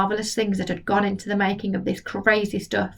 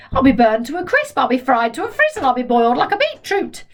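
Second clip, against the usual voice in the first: panicky grandma; 4 semitones higher than usual. Acted. Grandma fears being fried, mildly panicky. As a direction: wail in mild panic.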